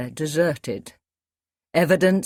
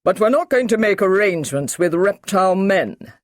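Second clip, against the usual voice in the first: firm, a touch louder officer; emphatic Brigadier; 4 semitones higher, 5 dB louder than usual. A narrator's reading. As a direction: put your foot down. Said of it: "said the Brigadier emphatically".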